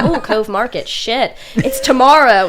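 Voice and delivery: mock panic. Panicked inner thought, retold.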